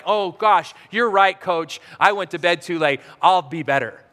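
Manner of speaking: low, meek mumbled apology; mock chastened kids. Young players answering their yelling coach, mock sheepish.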